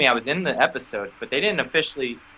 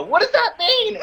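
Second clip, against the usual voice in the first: high, laughing and half crying; laughing disbelief; 4 dB louder than usual. Retold or imitated. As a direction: laugh through the question in disbelief. Baffled retelling, laughing.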